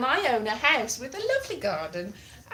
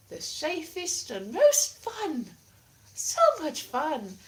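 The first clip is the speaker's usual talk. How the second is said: high, slow mock cheer; sarcastic; 7 semitones higher, slower than usual. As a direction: oversell the fun sarcastically.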